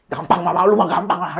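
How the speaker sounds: laughing joke line; joking aside. Pretend. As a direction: toss it off laughing. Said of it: "nggak gitu".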